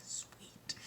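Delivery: soft, voiceless little cheer; whispered delight. Retold or imitated. Reacting to the manuscript download, retold whisper.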